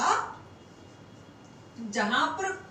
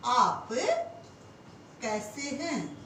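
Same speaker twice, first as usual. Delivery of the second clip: slow repeat; 2 semitones lower, slower than usual. Shown as a demonstration. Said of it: "हम कहें".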